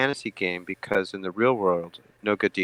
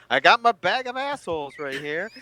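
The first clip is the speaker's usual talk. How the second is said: high, gleeful villain voice; evil possessive voice; 9 semitones higher than usual. Acted.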